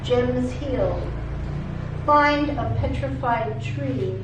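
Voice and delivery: measured poem recital with frequent pauses; poetry reading. Acted. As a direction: read it as a poem, phrase by phrase. Reads second poem aloud.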